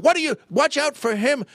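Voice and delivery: high, loud startled scolding; acted yell. Wife yelling as she jams on the brake, alarmed scolding. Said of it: "my wife goes to yell".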